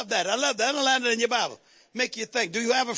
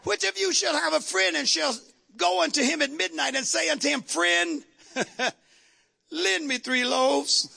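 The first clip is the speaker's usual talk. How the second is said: dramatic reading; 2 semitones higher than usual. Pretend. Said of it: "be dramatic here".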